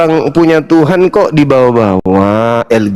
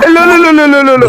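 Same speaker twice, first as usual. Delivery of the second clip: indignant protest; 11 semitones higher, faster than usual. Real, not acted. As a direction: fire off protests, pitched way up. Protesting accusation in heated argument. (protes kaget bernada tinggi)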